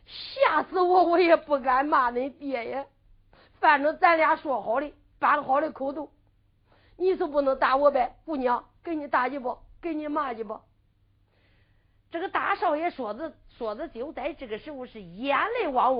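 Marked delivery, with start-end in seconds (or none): 0.1-10.6 put-on sobbing out a frightened plea to the girl; young master sobs to the girl, afraid she will hit him, crying. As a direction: whimper it like a scared young master. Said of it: "咋又哭起来了呀".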